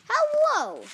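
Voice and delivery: high, loud, drawn-out hello; calling out. Acted. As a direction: holler a greeting, pitched right up. Piggy calls out while flying.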